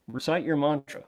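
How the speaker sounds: lightly acted grown-up giving an order; firm parent. Parent to yourself ordering mantra practice, lightly acted firmness. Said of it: "parental advice, uh, and firmness".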